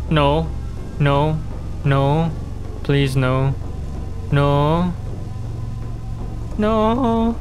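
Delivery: panicked pleading no; frightened begging as it closes in; being chased. Real, not acted. Monster chasing player in vent.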